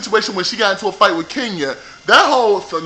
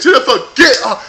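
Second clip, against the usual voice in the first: loud, higher cheering yell at the screen; 6 semitones higher, 5 dB louder than usual. Retold or imitated. Fan yelling at the TV for Jennifer to get up. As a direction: shout her on to get up off the floor. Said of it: "me and my girl was yelling at the T V".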